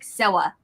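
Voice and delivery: "sewa" with a W in place of the R. Shown as a demonstration. Showing how they said R's as a child, "sewa" with a W. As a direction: say "sewa", rounding the R into a W. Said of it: "I would say 'em as W".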